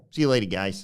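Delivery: ordinary delivery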